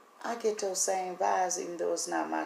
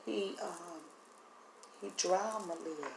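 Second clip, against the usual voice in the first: voice fading; 7 dB quieter than usual. Real, not acted. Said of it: "as you can see my voice is leaving".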